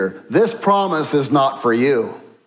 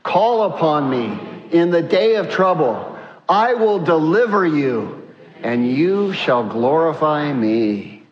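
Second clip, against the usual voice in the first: slow, weighty, deliberate verse reading; thundering scripture reading. Shown as a demonstration. Preacher reading God's promise to the congregation, measured proclamation. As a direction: read it out slowly as a solemn proclamation. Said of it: "read this in a loud, thundering voice".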